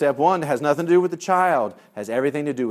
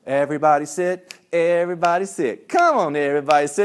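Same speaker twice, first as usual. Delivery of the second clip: lightly raised chivvying call; calling out to kids; 3 semitones higher, 5 dB louder than usual. Retold or imitated. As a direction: call the group to sit down. Calling hungry kids to sit.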